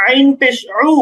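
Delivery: আইন and উ sounded from the middle of the throat; mid-throat consonant on আইন. Shown as a demonstration. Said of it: "গলার মাঝখানে".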